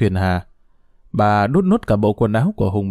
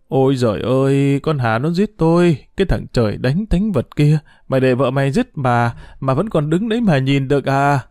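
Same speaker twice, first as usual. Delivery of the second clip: acted wail for help. Beaten mother appealing to her son, acted indignant wail. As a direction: wail at the son who just watches.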